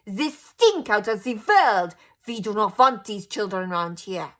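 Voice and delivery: very slow, loud witch scream. A narrator's reading. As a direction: stretch it out in disgust. Grand High Witch continues ranting.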